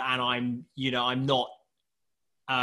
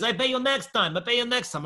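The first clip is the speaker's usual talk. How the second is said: high-pitched mock Russian accent; put-on Russian accent, raised pitch; 8 semitones higher than usual. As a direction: imitate a Russian brushing someone off. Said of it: "this accent is getting worse".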